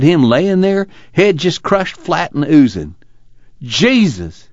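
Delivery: high, slow, grief-stricken telling; anguished. Acted. Son telling his father of the preacher's death, anguished. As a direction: choke on the memory of the dead preacher. Tom haunted by the killing.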